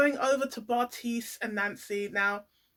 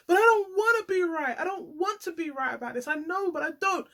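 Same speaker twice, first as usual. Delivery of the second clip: imitating tearful Steve; 5 semitones higher than usual. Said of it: "you can hear that he's crying".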